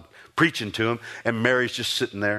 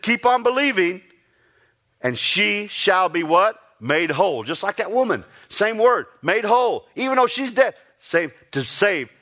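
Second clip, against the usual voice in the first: preaching climax; 8 semitones higher than usual. Acted. Preacher to congregation, rising to a fervent peak.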